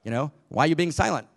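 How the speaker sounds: a light Bill Cosby take on God, loud and calling. Retold or imitated. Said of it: "Bill Cosby says".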